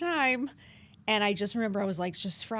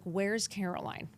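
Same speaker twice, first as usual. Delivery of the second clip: indignant outburst; 2 semitones higher, 4 dB louder than usual. Retold or imitated. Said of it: "I was like".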